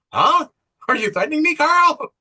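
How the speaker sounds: high, loud mock confrontation; retold defiant challenge. Woman challenging Carl over his threat, loud and defiant. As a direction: escalate sharply, pitched well up. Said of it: "how steely she is".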